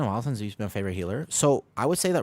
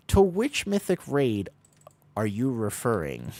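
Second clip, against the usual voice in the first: mock formal; 2 semitones higher, 3 dB louder, slower than usual. Mock formal rephrasing of question.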